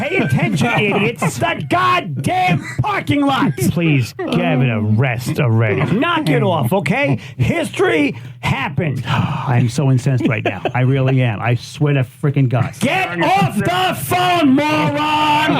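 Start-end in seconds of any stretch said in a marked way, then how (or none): 0.0-3.6 higher, shouted in outrage; ranting host yelling about the parking lot, angry shout. Acted. Angry rant montage. 12.8-15.5 higher, slow and shouted; ranting host yelling at a driver on the phone, shout; angry shout. Acted. Angry rant montage.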